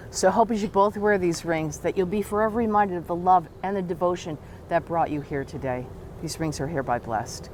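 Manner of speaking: solemn ring blessing voice; ceremonial blessing. Acted. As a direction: bless the rings with gravity. Officiant blesses the rings.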